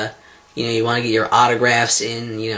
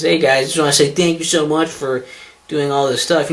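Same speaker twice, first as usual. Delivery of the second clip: mock thank-you video host; 2 semitones higher than usual. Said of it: "Thank you videos".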